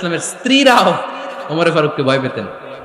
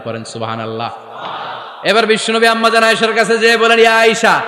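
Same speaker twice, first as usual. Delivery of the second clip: melodic sermon storytelling; 3 semitones lower than usual. Acted. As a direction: draw out the phrase endings in a sermon chant. Chanted telling of the story. (সুর করে ওয়াজের কাহিনি বলা)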